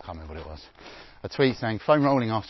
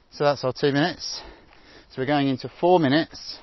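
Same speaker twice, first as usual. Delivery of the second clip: loud callout; 4 semitones higher, 7 dB louder than usual. Real, not acted. Coach calling out intervals.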